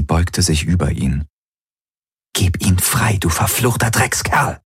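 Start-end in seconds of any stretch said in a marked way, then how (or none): 2.3-4.6 tense, contained demand; threatening. A narrator's reading. Woman ordering the possessor to free her friend, threatening. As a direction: curse him with controlled anger.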